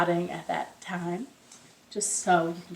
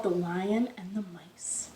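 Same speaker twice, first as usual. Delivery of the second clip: whispered title; 3 semitones lower, 6 dB quieter, slower than usual. Acted.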